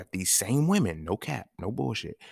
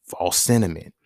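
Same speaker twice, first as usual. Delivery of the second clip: "False sentiment" said clearly louder with a firm falling end; emphatic louder verdict; 7 dB louder than usual. Real, not acted. Verdict repeated, louder second take.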